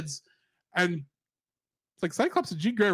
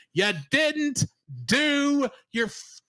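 exasperated scolding. Real, not acted. Scolding the character.

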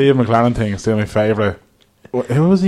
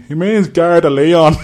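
slightly slow, raised retold voice; mock helpful bystander; bystander chipping in; 6 semitones higher, 5 dB louder, slower than usual. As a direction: explain it for the struggling tourist, louder. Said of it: "I just hear the chap behind me".

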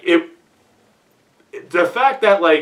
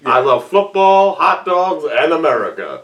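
goofy white guy voice. Retold or imitated. Mocking goofy white coach.

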